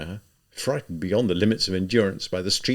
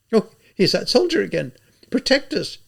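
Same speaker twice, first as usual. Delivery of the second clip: high, loud appeal for help; crying out; 12 semitones higher, 5 dB louder than usual. A narrator's reading. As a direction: cry out to the official for protection. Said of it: "she cried to the civil servant".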